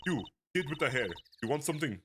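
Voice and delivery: put-on lightly Russian-accented lady; a hint of a Russian mob wife. A mob wife greeting strangers at her gate, light Russian accent. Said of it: "like, a Russian voice".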